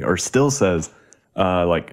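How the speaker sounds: ordinary talk, nothing marked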